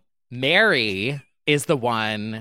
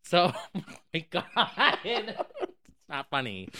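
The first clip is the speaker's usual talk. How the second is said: laughing; 7 semitones higher, 5 dB quieter than usual. Real, not acted. Laughing at a grim story.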